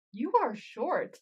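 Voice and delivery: slow, deliberate put-down, imitated; measured delivery, word by word; calculated jab. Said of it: "feels, like, very calculated".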